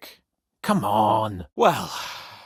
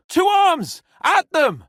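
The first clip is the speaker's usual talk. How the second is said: loud, high rallying shout; battle cry; 14 semitones higher, 6 dB louder, slower than usual. Real, not acted. Rallying fighters into battle with a loud shout. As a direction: roar them into the fight.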